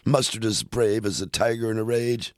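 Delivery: lively, sing-song story-poem recital; poem reading. Acted. Host reading Custard the Dragon on air, sing-song recital. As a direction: bounce through the rhymes for the kids. Reads rest of the poem aloud.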